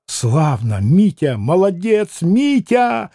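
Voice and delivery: rising exclamation with a malicious edge; spiteful cheer. Acted. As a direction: praise him with venom underneath. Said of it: "страшно злобная нотка прозвенела".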